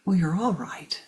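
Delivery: soft, hushed old owl, lightly voiced; wise owl. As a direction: gently settle their quarrel from above. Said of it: "and says".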